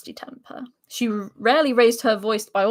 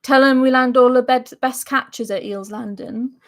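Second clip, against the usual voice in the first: put-on rough Marcher accent, land it flatly; 4 dB louder than usual. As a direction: speak it like a blunt Marcher. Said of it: "So I get to do my Marcher accent".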